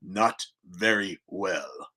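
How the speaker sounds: slow, soft and flat-toned deadpan; deadpan reply. Retold or imitated. Humorless kid answers at the breakfast table, slow deadpan. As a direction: answer slowly, no hint of a joke.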